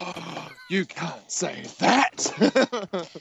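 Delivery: mock shocked gasp. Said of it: "Bex is like".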